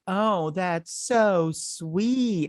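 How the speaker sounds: slow, high, hammed-up sweet line; mock an overacting actor. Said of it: "they're overacting".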